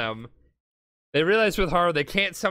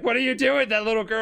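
higher-pitched, startled protest; mock alarm; 6 semitones higher, faster than usual. Villain protesting to Jotaro as his threat fails, mock alarm. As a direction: imitate a villain whose threat is failing.

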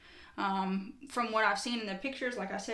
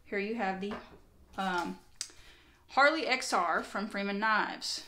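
announcer voice. Pretend. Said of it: "There's my announcer voice".

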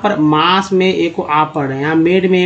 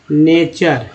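split into parts; 2 semitones lower, much slower than usual. Shown as a demonstration. Teacher assembles word from parts.

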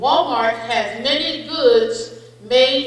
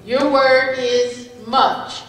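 pronouncer voice; slower than usual. Acted. Spelling bee pronouncer reading word.

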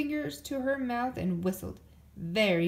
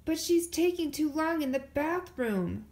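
whiny, higher and louder; complaining; 6 semitones higher, 4 dB louder than usual. A narrator's reading. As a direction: grumble to Papa. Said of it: "complained Brother".

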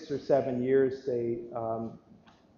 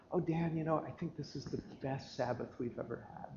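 soft retold contentment; 11 dB quieter than usual. Neighbor's fond Sabbath answer retold.

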